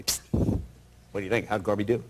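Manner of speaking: low, hushed agent's murmur; confidential aside. Retold or imitated. Gorbachev's agent sidling up at dinner, confidential. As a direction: sound him out on the quiet.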